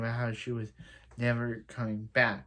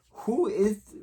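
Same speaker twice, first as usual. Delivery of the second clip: startled question; 8 semitones higher than usual. Retold or imitated. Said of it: "she would have said".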